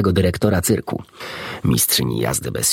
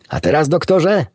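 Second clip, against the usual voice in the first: eager call; 9 semitones higher than usual. A narrator's reading. Pig calling the doctor to start his story, high and eager. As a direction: pipe up to grab the doctor's attention. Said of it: "zawołało Geb-Geb".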